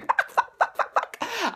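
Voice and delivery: breathless whispered fuck fuck ending in a laugh; whispered swearing. Retold or imitated. Shaking fan whispering in shock, then laughing. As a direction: hiss it in disbelief, then crack up. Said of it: "I was going".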